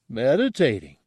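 a hint of labored creature speech; struggling to speak plainly. Gartog insists the monk is meditating, struggling to speak. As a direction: force the word out with effort. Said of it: "still struggling to speak plainly".

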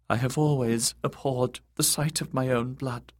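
high, prissy eunuch voice; fussy eunuch. A narrator's reading. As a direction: sniff it out, high and dainty. Varys fussing over blood.

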